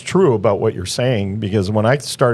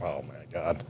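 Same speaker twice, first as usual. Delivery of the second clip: amazed; 7 semitones lower, 17 dB quieter than usual. Retold or imitated. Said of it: "I was like".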